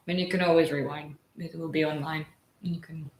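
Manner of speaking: talking with a mouthful; mumbling through a bite of bread; chewing while talking. Real, not acted. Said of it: "sorry, I'm chewing".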